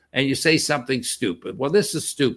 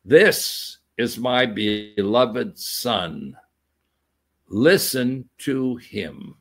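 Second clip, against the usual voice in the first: lower, very slow and grave; voice from heaven; 4 semitones lower, much slower than usual. Acted. Preacher repeating God's words from heaven, deep and slow. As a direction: intone it like a divine decree.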